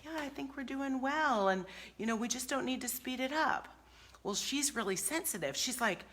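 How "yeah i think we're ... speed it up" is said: soft, high, lightly voiced husband; imitating the husband. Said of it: "And he said".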